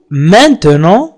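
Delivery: "maintenant" with the middle "te" sounded; full pronunciation. Shown as a demonstration. Teacher gives learners the word's full form, full pronunciation. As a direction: say "maintenant" in full, man-te-non. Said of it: "نقرأها maintenant".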